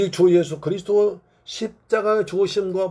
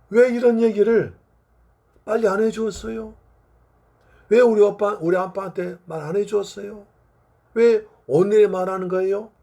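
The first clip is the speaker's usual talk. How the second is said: raised-pitch reproach, acted as a child; accusing protest; 4 semitones higher than usual. Bereaved child confronting the missionary, accusing protest. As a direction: demand answers, pressing each question. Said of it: "라고 따지는 겁니다".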